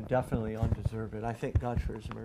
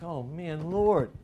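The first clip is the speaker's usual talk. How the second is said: dismayed exclamation; 4 semitones higher, much slower than usual. Retold or imitated. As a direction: cry out to the Lord in mock dismay. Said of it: "I'm just like".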